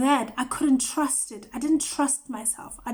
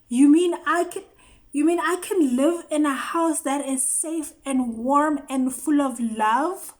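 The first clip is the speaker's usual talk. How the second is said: amazed disbelief; 2 semitones higher, 3 dB louder than usual. Real, not acted. Marvelling at new life.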